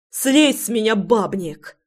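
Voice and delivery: piercing scream. Acted. Wife screams at husband pinning her, piercing cry. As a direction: shriek at him to get off. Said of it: "пронзительно закричала Руслана".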